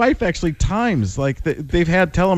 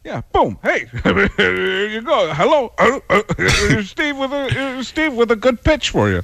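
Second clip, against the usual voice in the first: much higher, laughing mock announcer; John Madden; 7 semitones higher than usual. Handing the caller to Steve, much higher and laughing. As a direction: hand the call over with a chuckle. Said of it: "John Madden".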